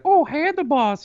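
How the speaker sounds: very high, slow pretend baby wonder; voicing his baby daughter. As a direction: marvel like a delighted baby, drawn out. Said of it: "she's like".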